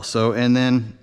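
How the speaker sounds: gurgling through a burp. Real, not acted. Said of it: "I'm burping and gurgling all over".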